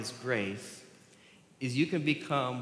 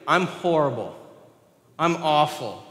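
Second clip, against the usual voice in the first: mock dramatic; 2 semitones higher, 6 dB louder than usual. Mock self-description to a group.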